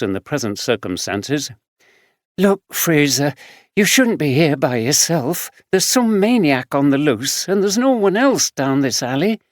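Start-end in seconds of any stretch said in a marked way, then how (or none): 2.4-9.4 a hint of a higher young woman's voice; caring friend, a bit weary; young homeless woman. Samantha warns Fraser.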